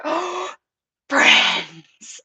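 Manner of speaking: mock-thrilled gasping exclamation; excited. Breeder spotting fellow castor owners, excited. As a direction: act out being thrilled to find friends. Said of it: "I get so excited about it".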